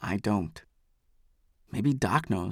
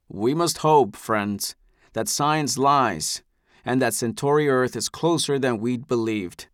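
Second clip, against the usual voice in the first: slow, smooth patronizing calm; a patriarch soothing a troublemaker; gracious elder. Acted. Eldest addresses the crowd.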